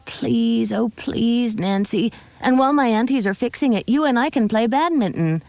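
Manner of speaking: put-on eager child, begging sweetly; pleading little girl. Little Judy begs Nancy to stay.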